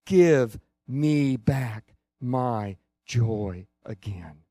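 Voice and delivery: imploring cry that slows and sinks away. Retold or imitated. Preacher voicing David's prayer for lost joy, crying out. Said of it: "and he's crying out".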